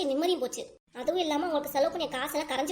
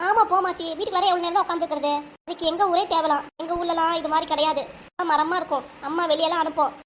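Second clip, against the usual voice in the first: put-on child's whine; 2 semitones higher, 4 dB louder than usual. Child voiced complaining to grandma.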